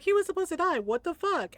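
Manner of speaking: whiny mock Solas. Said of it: "And he's like".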